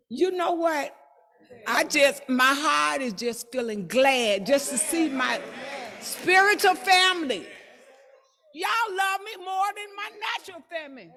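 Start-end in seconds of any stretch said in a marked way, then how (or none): 2.3-11.1 excited. Real, not acted. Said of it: "But I get excited".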